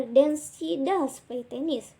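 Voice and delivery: "does" stretched out for emphasis; stress on DOES. Shown as a demonstration. Teacher showing emphatic present tense, slow stress on "does". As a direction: lean slowly on "does". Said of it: "do or does with emphasis".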